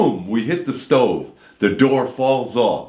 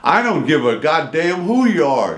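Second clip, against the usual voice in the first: put-on angry old lady; 5 semitones higher than usual. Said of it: "this woman is like".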